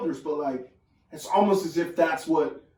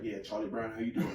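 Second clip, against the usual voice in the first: lightly voiced smooth old grandpa; 5 semitones lower, 11 dB quieter than usual. Grandson imitates his smooth-talking grandfather, softer and low. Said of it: "He got the smoothest voice ever".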